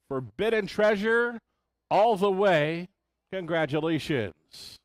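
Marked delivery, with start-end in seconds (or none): 0.1-2.9 excited race call. Real, not acted. Finish-line race call climax.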